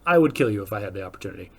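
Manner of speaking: low mock threat muttered to another driver; half-joking menace under the breath. Muttering at a reckless driver, mock threat. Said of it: "you just be like".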